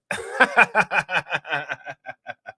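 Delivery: long rolling laugh; drawn-out real laughter. Real, not acted. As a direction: crack up at your own joke. Laughs at own coaching joke.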